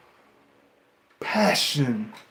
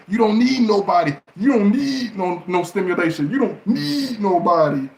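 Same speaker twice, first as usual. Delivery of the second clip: normal talking voice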